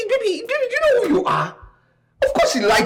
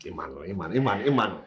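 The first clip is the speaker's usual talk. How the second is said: calling out; 12 semitones lower, 8 dB quieter, much faster than usual. Acted. Calling out to someone.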